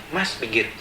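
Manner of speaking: low, softened request to pull over; composed, retold roadside request; unexpectedly calm. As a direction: keep it calm, low and quiet. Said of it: "Kok bisa kalem ya?".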